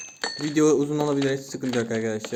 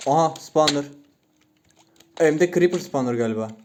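surprised discovery; 5 dB louder than usual. Real, not acted. Player spotting a spawner for viewers, surprised. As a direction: call out a sudden find.

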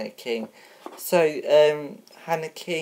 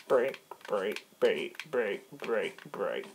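fading echo; 3 semitones lower, 7 dB quieter, slower than usual. Pretend. Host ending the show before the break, fading echo. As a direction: break repeated, dropping lower and softer.

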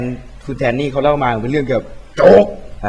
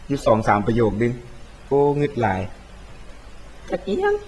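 casting the game in Isan dialect, a bit unsure; chatty Isan dialect, exclaiming at the end; 3 dB quieter than usual. Acted. Streamer keeps his promise to cast in Isan dialect. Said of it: "พูดภาษาอีสานทั้งคลิปนะ".

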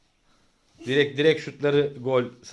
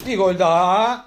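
higher, louder goal call; screaming football commentator; 6 semitones higher, 5 dB louder than usual. Acted. Dad commentating home football.

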